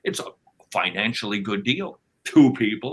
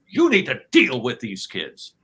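mock stressed wife; 3 semitones higher, 6 dB louder than usual. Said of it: "I get greeted with".

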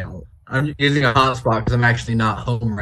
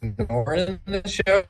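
wobbly warbling call audio; choppy glitchy internet voice; breaking up; 2 semitones higher than usual. Real, not acted. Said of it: "You are breaking up still".

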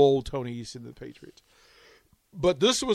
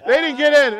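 repeated much higher and louder in frustration; frustrated repeat; 10 semitones higher, 6 dB louder than usual. Retold or imitated. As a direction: raise it high, exasperated. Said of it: "And I'm mad".

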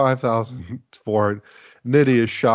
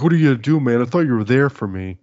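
higher, louder whiny soap plea; mock teen soap drama; 3 semitones higher, 5 dB louder, faster than usual. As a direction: overplay a needy teen friend. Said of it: "It's like".

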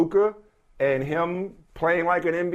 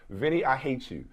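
softer, affectionate mock hatred; lovingly; 5 dB quieter than usual. Real, not acted. Co-host teasing Vinny after his joke, lovingly. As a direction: say it softly, with love behind it. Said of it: "say this in the most lovingly way".

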